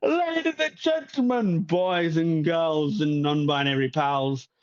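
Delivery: lightly voiced festival host, grand; a hint of a flamboyant host welcoming the crowd; showman host. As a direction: announce like a showman. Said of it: "starts appearing on stage going".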